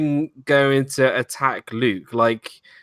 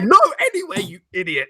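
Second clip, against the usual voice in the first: mock sarcastic Han; 6 semitones higher, faster than usual. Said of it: "really sarcastic".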